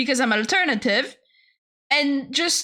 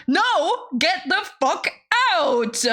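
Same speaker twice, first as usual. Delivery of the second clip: exasperated rebuff; 6 semitones higher than usual. Retold or imitated. Acted rebuff to strangers.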